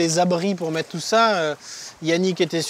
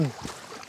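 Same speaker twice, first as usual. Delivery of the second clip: soft unvoiced cough; 12 dB quieter than usual. Real, not acted. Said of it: "très indigeste un moustique".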